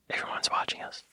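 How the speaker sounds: very soft, whispered aside; mimed self-conscious whisper; retold hushed whisper. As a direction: whisper it as if being watched. Retelling audience's hushed self-consciousness.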